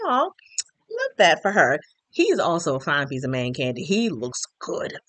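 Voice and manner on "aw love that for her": slow, drawn-out aww, raised in pitch; touched. Retold or imitated. Viewer recalling her reaction to a patient suitor, touched. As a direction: melt a little, taking your time.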